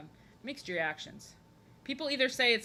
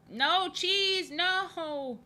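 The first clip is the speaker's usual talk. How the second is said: high, loud playful wail; mock dismay; 9 semitones higher, 5 dB louder, much slower than usual. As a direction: wail it in exaggerated protest. Mock dismay at the drawing's colour.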